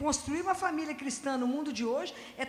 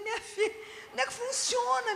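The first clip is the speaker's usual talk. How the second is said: high, laughing delight; 10 semitones higher, 3 dB louder than usual. Real, not acted. Answering the amazed client, laughing and delighted. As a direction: laugh through the words with joy.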